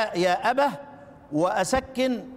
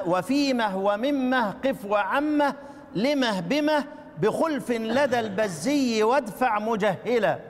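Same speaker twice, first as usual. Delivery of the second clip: slow chanted verse, each word drawn out; slow verse recitation; slower than usual. Shown as a demonstration. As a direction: recite the verse slowly for students. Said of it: "كم كلمة؟". (تلاوة بطيئة للبيت مع مد الكلمات)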